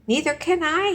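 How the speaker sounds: high, loud wailing cry; howled. Acted. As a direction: howl it in fright. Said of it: "howled Flitter".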